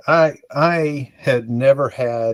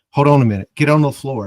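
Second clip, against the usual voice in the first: urgent order; 4 semitones higher, 6 dB louder, faster than usual. Retold or imitated. Nurse ordering him down.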